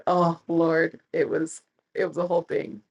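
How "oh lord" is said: slow drawn-out oh Lord; exasperated. Real, not acted. Vlogger recalling the embarrassing border episode, slow exasperated. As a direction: sigh it out slowly.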